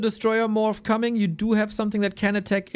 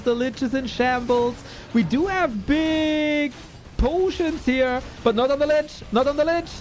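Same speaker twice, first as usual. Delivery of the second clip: play-by-play; 5 semitones higher than usual. Real, not acted. Live casting of the fight.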